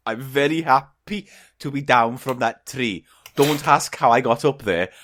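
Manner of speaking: lightly put-on Welsh whale voice; Welsh accent. Whale glad to be down from the tree, light Welsh accent. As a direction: talk with a gentle Welsh lilt.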